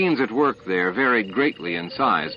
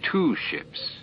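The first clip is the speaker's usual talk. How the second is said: a higher, stunned echo of the words; stunned repeat; 7 semitones higher, 4 dB quieter than usual. A narrator's reading. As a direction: repeat it in disbelief, voice lifting. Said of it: "stared at the screen in shock".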